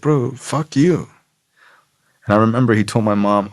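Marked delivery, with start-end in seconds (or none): 0.0-1.1 drawn-out, contemptuous comeback; teen defying the principal, slow and contemptuous; slow defiant retort. Retold or imitated. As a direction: spit it back slowly at him. Answering the principal.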